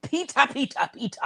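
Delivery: high, drawn calling of a name; Betty Davis voice. Retold or imitated. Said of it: "like Betty Davis says".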